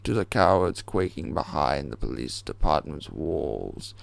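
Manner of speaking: slow, measured menacing address; slow ominous broadcast speech; villain's proclamation. Acted. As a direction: proclaim it to the whole city, slowly.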